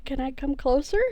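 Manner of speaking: a hint of southern accent; lightly southern, tentative rising question. Player retrying James's question, light southern accent. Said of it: "it tastes weird on my mouth when I'm trying to voice James".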